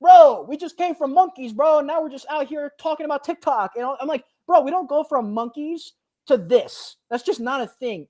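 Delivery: incredulous retelling. Retold or imitated. Retold argument against evolution.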